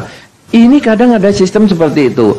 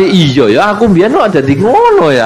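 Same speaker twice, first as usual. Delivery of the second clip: sheepish admission; 3 semitones higher than usual. Retold or imitated. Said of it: "Anda kan jadi".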